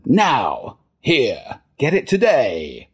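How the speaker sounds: each phrase falling hard, drawn-out ending; demanding ad voice, swooping down on every phrase; down-talk voiceover. Acted. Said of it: "what's called, um, down talk".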